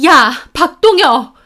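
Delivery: furious yell, high and loud; angry shout. A narrator's reading. Sister confronting her brother after the hospital, angry shout. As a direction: shout the name in anger. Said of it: "화가 나서 오빠에게 소리를 질렀습니다".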